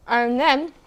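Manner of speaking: talking through a mouthful of dough; words round a bite of cookie dough; mouth full. Real, not acted. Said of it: "you don't talk with your mouth full on camera".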